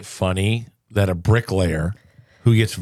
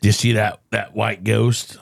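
lightly voiced country lookout; hick lookout voice. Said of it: "That was great".

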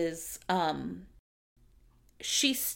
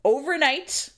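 sarcastic punchline; 7 semitones higher, 4 dB louder than usual. Retold or imitated. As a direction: pitch jumps up and louder on overnight.

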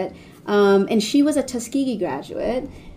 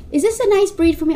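imitating mother; 9 semitones higher, 5 dB louder than usual. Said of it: "mother asks".

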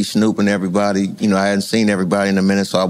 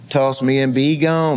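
gun's voice, slow; 3 semitones higher, slower than usual. Retold or imitated. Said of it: "the gun talking to him".

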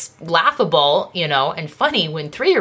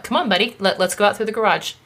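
higher, coaxing parent voice, lightly done; coaxing mom; 4 semitones higher, faster than usual. Retold or imitated. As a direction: sweet-talk a stubborn toddler. Mom coaxing toddler to leave.

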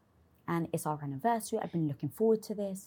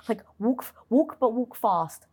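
higher, louder, pushing herself to hurry; urgent self-talk; 4 semitones higher, 6 dB louder than usual. Retold or imitated. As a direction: spur yourself on, rising at walk. Urging herself on in panic.

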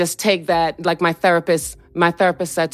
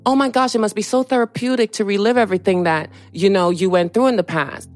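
higher-pitched mock enthusiasm; imitated gushing; 3 semitones higher, faster than usual. Imitating others praising her reliving trauma, mock gushing. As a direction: imitate a well-meaning gusher, pitched up.

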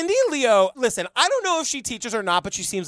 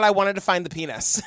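earnest shout; 4 semitones lower than usual. Retold or imitated. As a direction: announce it proudly. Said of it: "This cop is like".

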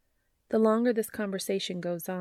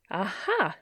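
triumphant shout; 2 semitones higher than usual. Acted. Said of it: "Joe shouts triumphantly".

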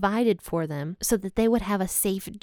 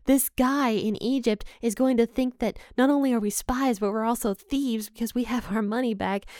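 panicked; 3 semitones higher than usual. Retold or imitated. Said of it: "They are terrified because they're like".

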